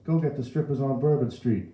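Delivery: put-on high, loud old man; indignant old bystander; heckling old man. A narrator's reading. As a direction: heckle from the crowd. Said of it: "an old man added".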